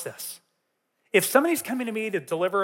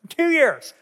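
amused disbelief; 8 semitones higher, 6 dB louder than usual. Real, not acted. Laughing at his own long delay.

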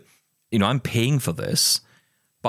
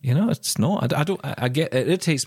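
higher, heated plea, pushing the point hard; worked-up rant; 4 semitones higher than usual. Real, not acted. Host venting at the RNIB to make its service accessible, ranting. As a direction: let the frustration spill out and climb. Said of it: "an early rant".

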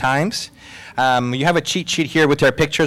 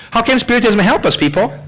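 loud, high call to the room; 11 semitones higher, 5 dB louder than usual. Acted. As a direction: throw the question out to the crowd. Host calls question to panel.

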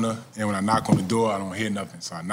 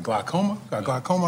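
"Glaucoma?" pitched up with a rising, incredulous tune; surprised; 5 semitones higher than usual. Retold or imitated. Grandson echoing grandma's diagnosis in surprise, rising "Glaucoma?". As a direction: echo "Glaucoma" back in mock disbelief, climbing at the end. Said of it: "And I was like".

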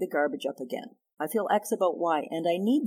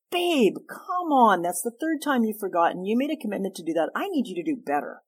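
healthy criticism; 3 semitones higher than usual. Shown as a demonstration. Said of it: "I'm gonna call it a healthy criticism".

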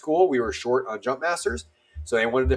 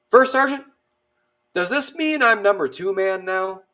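high-pitched, louder call to the first sergeant; imitating nervous private; 7 semitones higher, 4 dB louder than usual. Private asking the first sergeant about his jump spot, high-pitched mock nerves. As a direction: act out an anxious question, pitched well up.

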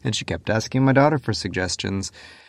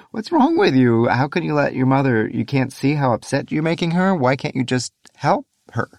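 angry yell; 5 semitones higher than usual. Retold or imitated. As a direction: yell at the daughter for upsetting mom. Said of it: "I sort of yelled at her".

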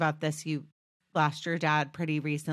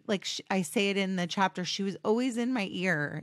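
holding back sobs; faster than usual. Real, not acted. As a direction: voice thick with held-back tears. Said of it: "I get emotional when I talk about her still".

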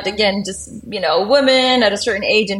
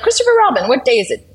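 Pooh voice; 4 semitones higher, 3 dB louder, faster than usual. Retold or imitated. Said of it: "And he's like".

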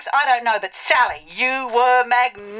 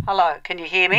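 calling out through a megaphone; hailing the set through a loudhailer; 5 semitones lower, faster than usual. Pretend. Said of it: "you don't need the megaphone".

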